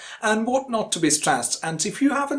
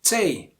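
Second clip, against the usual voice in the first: TE held long and firm by itself; stressed syllable alone. Shown as a demonstration. Teacher isolating data's first syllable, stressed. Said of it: "the stressed syllable is the first syllable".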